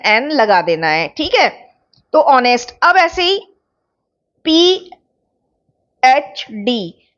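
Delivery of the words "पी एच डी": very slow letter by letter spelling; slowly spelled letters. Shown as a demonstration. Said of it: "अब इसमें क्या sound आ रही है".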